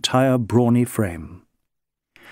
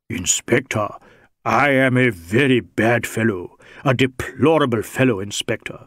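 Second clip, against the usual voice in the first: lightly voiced Indian rogue, mock-penitent; a hint of a wily, humble Sikh; self-abasing Sikh suspect. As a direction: confess your badness with theatrical deference.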